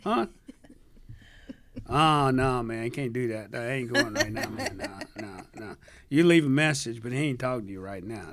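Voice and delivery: loud, high streetwise phone answer; hammed-up street guy answering; slangy street voice.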